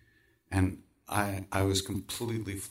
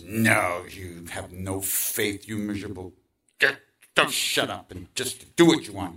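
louder, stern inner critic snapping at himself; scolding inner voice; 4 dB louder than usual. Acted. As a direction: tell yourself off, loud and harsh. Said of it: "the other part of me says".

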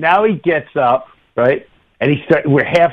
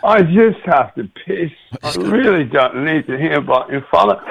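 a rock singer; 3 semitones higher than usual. Retold or imitated. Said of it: "he's just looking at me going".

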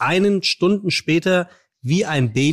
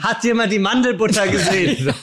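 yelling across the room; 5 semitones higher than usual. Pretend. Acted couple scene about almond butter.

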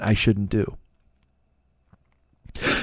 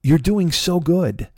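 encouraging friend; 4 semitones higher than usual. Retold or imitated. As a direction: gently talk him out of it, sweetly. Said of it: "She was saying".

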